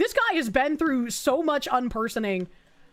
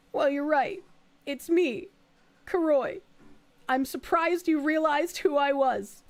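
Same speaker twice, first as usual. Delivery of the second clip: biker voice; 5 semitones higher, slower than usual. Acted. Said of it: "the lesbian biker voice".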